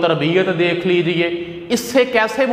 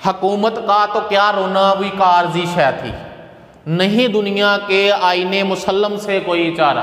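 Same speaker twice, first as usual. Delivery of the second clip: slightly raised, measured poem reading; verse recitation; 3 semitones higher than usual. Acted. Teacher reciting Iqbal's couplet to students, verse recitation.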